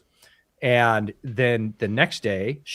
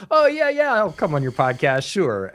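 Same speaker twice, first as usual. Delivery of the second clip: high, louder, airy fake agreement; noncommittal brush-off; 7 semitones higher, 3 dB louder than usual. Someone brushing off a podcast invite, insincerely keen. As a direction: toss off an empty promise in a high mock voice. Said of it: "which is the difference, right? The whole, like".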